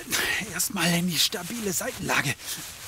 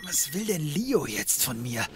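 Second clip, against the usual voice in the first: hungover grumble; 7 semitones lower, 5 dB quieter than usual. Acted.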